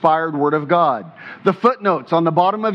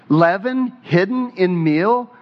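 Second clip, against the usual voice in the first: slowly, with weight on "hidden"; stress on hidden. Shown as a demonstration. Preacher pointing the congregation to a key word, stress on "hidden". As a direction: set "hidden" apart and lean on it. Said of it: "Emphasize the word hidden".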